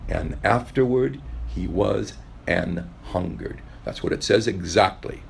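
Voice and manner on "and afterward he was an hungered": put-on slow, low solemn recitation of the old text; slow Old English scripture quote; slow scripture reading. Shown as a demonstration. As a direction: read it like old scripture, slowly. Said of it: "in the Old English".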